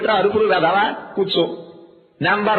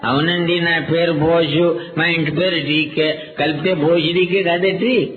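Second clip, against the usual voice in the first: put-on slow dull kid; slower than usual. Slow kid explains name.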